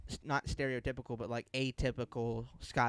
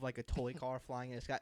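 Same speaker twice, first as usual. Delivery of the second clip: normal talking voice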